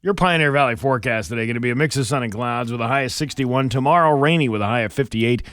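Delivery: brisk, upbeat on-air forecast read; radio news read. Real, not acted. Radio host reading the weather to listeners, brisk.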